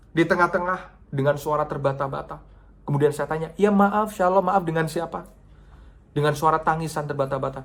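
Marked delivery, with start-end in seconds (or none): 3.5-5.3 urgent question. Retold or imitated. Asking sobbing caller.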